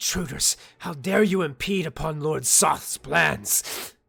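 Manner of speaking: very loud, shrill, hissing creature voice. Voicing a creature hissing at an approaching player: hissing creature voice. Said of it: "she kinda, like, hisses at you".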